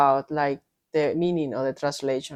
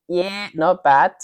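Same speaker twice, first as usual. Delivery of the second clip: imitating Aussie; 3 semitones higher, 6 dB louder, slower than usual. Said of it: "And they say".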